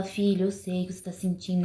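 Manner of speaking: empathetic parent. Shown as a demonstration. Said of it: "com empatia, falar".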